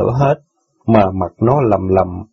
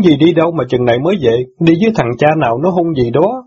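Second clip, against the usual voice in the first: loud demand; 6 semitones higher than usual. Acted. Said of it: "hỏi lớn rằng".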